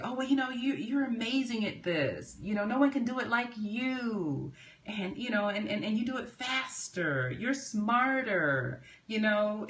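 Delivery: mock flatterer buttering someone up; gushing flattery. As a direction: lay the compliments on thick to get a yes. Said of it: "the complimenting".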